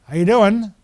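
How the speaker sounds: lightly imitated Maine accent, lilting upward; easy hint of a Maine accent. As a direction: greet them with a touch of Maine. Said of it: "his little Maine accent".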